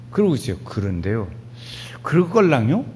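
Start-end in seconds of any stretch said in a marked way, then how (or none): 0.6-1.3 low, soft Chungcheong imitation; slow Chungcheong speech. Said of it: "이렇게 천천히 말을 해요". 2.0-2.9 unhurried Chungcheong imitation with a lilting question; easygoing Chungcheong local checking gently; slow Chungcheong speech. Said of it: "이렇게 천천히 말을 해요".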